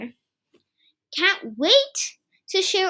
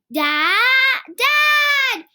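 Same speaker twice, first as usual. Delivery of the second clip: high calling out for Dad; yelling; 8 semitones higher, 4 dB louder than usual. Acted. Kipper yelling to Dad from his bed. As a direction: call upstairs, rising. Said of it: "he yelled".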